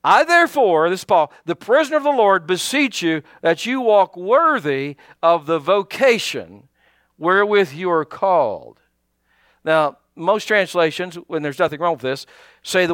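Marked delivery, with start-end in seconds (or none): 0.0-8.8 scripture reading. Real, not acted. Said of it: "listen to this".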